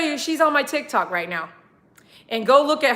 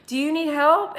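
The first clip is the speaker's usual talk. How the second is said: demo for viewers; 4 semitones higher than usual. Shown as a demonstration. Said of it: "Go ahead, ready, go".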